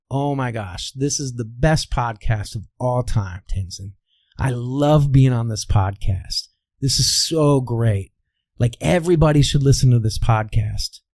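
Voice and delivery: mean every word as if you love the show; felt love. Shown as a demonstration. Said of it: "and I start feeling love".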